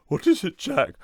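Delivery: light voiced mother; mother asking. Mother answering Jack's call, puzzled.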